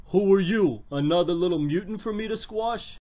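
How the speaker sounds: put-on comic-book villain voice; villain's challenge in a character voice; Juggernaut. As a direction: play a menacing bruiser sizing up a foe. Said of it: "that's the voice I chose for Juggernaut".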